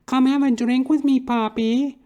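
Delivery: mocking high flirt; drag queen impression. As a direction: coax him in a camp falsetto. Drag queen neighbour invites, retold.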